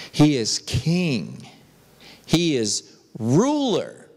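emphatic, measured proclamation from the pulpit; emphatic preaching. Real, not acted. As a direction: preach it word by word, with pauses. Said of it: "I'm being so emphatic with you".

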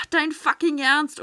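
loud, slow exasperated outburst; angry disbelief. Real, not acted. Player to the last enemy, furious disbelief. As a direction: snap it in disbelief. Frustrated in final fight.

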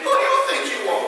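fast, sassy challenge with a laugh; sassy attitude. Shown as a demonstration. Preacher demonstrating the attitude line for the congregation, sassy and fast. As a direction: toss it at your neighbor with attitude. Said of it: "I need some attitude".

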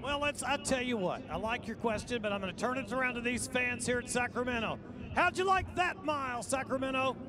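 hyping the crowd. Real, not acted. Announcer asks crowd to cheer.

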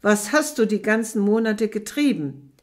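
loud demanding shout; angry interrogation. Acted. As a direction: grill her furiously. Interrogation with blows.

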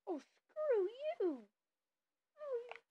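high, drawn-out annoyed yell; frustrated yell. Real, not acted. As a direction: stretch it out, fed up and loud. Killed in game, frustrated.

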